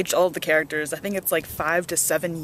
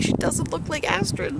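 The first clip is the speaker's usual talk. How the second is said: doubtful; 8 semitones higher than usual. Retold or imitated. Her doubtful reply to fans.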